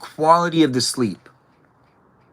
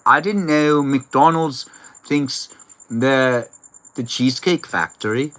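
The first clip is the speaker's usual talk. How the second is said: imitating Iris's accent. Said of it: "so Iris talks like this".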